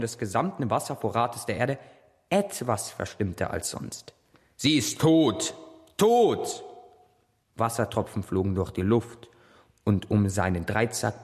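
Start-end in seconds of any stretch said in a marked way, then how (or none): 4.6-6.6 anguished shout. Acted. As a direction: cry out the death in grief. Poseidon schreit über Tote. (verzweifelter Ruf)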